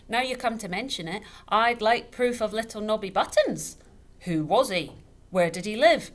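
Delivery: loud, high scornful rant; wine-loud father mocking the widow; scoffing tipsy father. A narrator's reading. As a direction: pour scorn on the tale.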